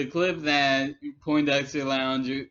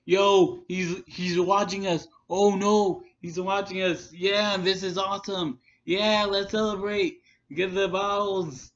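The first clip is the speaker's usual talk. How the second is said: higher, hammed-up giddy glee; mock a fan thrilled at being watched; a hammed-up imitation of giddy celebrating; mock excitement; 5 semitones higher than usual. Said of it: "he's like".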